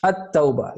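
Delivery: At-Tawbah begun on a sounded alif; At-Tawbah, first vowel voiced; alif pronounced. Shown as a demonstration. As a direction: demonstrate the opening "at" in At-Tawbah. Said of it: "like that".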